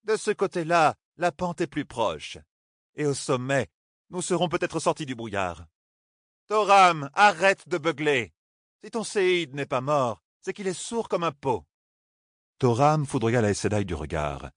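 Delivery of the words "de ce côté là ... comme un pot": voix aiguë, sèche et sûre; Katsuane autoritaire. A narrator's reading. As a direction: ordonne sans hausser le ton. Katsuane donne ses ordres. (Katsuane commande le groupe, aiguë et autoritaire)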